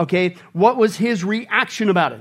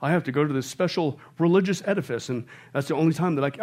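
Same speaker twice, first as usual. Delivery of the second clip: imitating excuse-makers; 4 semitones lower, 4 dB quieter than usual. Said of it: "Some people say".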